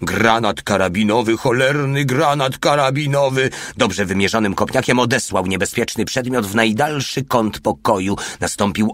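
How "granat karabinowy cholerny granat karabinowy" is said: frightened cry, pitch climbing; przerażony krzyk. A narrator's reading. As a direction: cry out a panicked warning, rising. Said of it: "zawył przerażony mały". (przerażone wołanie, coraz wyżej)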